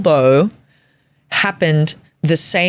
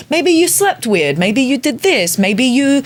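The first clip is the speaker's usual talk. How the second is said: friends suggesting; 6 semitones higher than usual. Retold or imitated. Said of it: "they're going".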